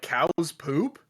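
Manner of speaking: put-on child asking. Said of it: "I'm like".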